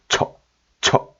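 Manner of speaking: 처 cut short and abrupt; deep, abrupt sound. Shown as a demonstration. Teacher showing the resulting old sound, 처 clipped short. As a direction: say each 처 as a separate quick burst. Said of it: "이런 소리가 되는 것이죠".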